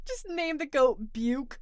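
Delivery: slow, laughing through the words; giggling while saying it. Real, not acted. Joking suggestion, laughing.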